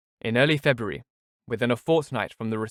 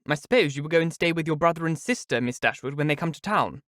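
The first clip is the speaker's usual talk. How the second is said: higher, put-on sweet voice; a pointed question in honey; Lucy, sly; 4 semitones higher than usual. Lucy probes Eleanor with a sly hint. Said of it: "after a cessation of hostile hints".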